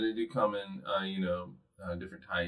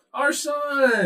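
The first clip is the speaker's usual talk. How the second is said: high, bright announcer flourish; fancy star voice; 8 dB louder than usual. Pretend. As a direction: sing it out like a star. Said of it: "Can you do it in your fancy star voice?".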